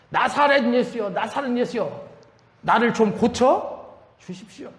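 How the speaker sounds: restrained re-enactment of a street cry; mock crying out. Blind beggar calls to Jesus from the roadside, mild mock yell. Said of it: "고함을 지릅니다".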